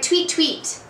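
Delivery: high-pitched little bird call; tweeting imitation. Shown as a demonstration. Teacher asks what makes this sound, high tweeting imitation. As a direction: chirp it like a bird. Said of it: "What makes that sound".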